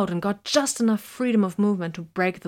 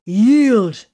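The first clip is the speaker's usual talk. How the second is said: roared command, loud and high; roaring; 3 semitones higher, 7 dB louder than usual. A narrator's reading. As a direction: roar the order. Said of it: "Titus roared".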